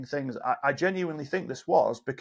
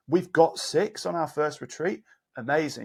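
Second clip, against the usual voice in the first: lightly upbeat, pitched up at the start; positive reframe; 3 semitones higher than usual. Shown as a demonstration. Coach showing the same sentence said differently, mildly excited. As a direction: say it as pleasing news. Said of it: "said in a different way".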